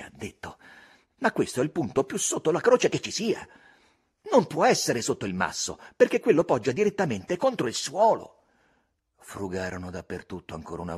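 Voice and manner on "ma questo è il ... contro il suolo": put-on Tom insisting, "croce" leaned on, lightly raised boy voice; a boy arguing his point with a hint of excitement; eager Tom. A narrator's reading. Tom reasoning with Huck: a touch of eager insistence.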